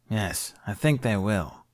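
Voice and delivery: growling. Acted. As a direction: growl it out slowly. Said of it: "she growled".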